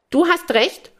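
very high excited cry; squeaky high shout of agreement; excited call. Acted. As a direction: call it out delighted. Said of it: "ruft er".

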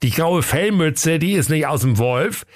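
high-pitched reporting sidekick; comic knight-officer figure; Prinz Meisenherz. A narrator's reading. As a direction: report to the boss in a high put-on voice. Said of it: "Ritter Prinz Meisenherz".

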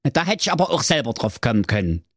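fast rueful mumble; rueful aside. Acted. Prince to himself, rueful, fast. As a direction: rush the self-reproach.

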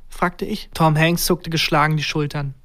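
usual speaking voice

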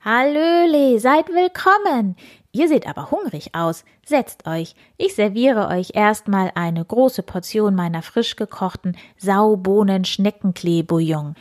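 overjoyed host greeting guests; exuberant boar. Acted. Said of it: "Überschwänglich rannte Wildi". (überschwängliches Wildschwein, hoch und herzlich)

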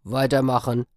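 mild bear grumble; bear growl. Acted. Bear ordering the foresters, mild grumble. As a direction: grumble it like a boss. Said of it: "brummte der Bär".

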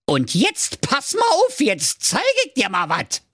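put-on high, threatening Berlin accent; Berlin ninja. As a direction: warn him you're about to strike. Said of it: "der Ninja".

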